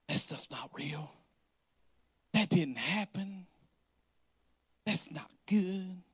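slow, dismissive sneer of a critic; mock critic. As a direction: drawl it out like a doubter. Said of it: "here's what I constantly have to deal with".

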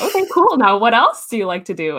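lightly acted mom, high-pitched brush-off into the question; a hint of a parent fishing for another answer; mock-approving mom, starting high; mom's prodding. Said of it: "My mom's like".

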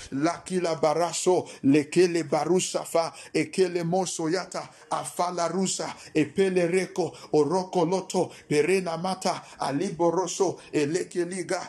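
rapid glossolalia prayer; speaking in tongues. Acted. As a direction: pray in tongues, fervent. Praying in tongues.

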